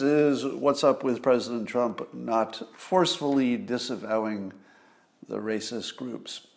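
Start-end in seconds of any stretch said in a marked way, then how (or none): 2.8-4.5 forcefully leaned on, the word pressed hard; stress on forcefully. Shown as a demonstration. Stressing forcefully while explaining the debate question to viewers. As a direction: lean into forcefully. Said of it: "with the emphasis on the word forcefully".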